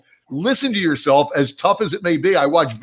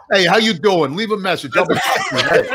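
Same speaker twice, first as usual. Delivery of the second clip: New Jersey accent. Shown as a demonstration. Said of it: "Not my new Jersey".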